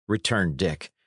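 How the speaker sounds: ordinary delivery, nothing marked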